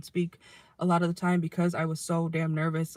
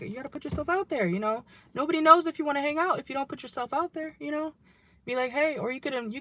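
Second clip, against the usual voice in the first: pep talk; 8 semitones higher than usual. Retold or imitated. Parent coaching child excitedly.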